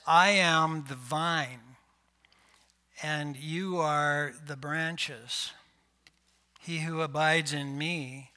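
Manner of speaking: slow, weighty scripture reading. Acted. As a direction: read it out with gravity.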